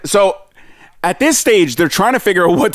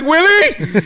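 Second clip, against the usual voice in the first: high-pitched imitated wail; mock panicked call from up high; retold yell; 10 semitones higher than usual. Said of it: "he starts yelling".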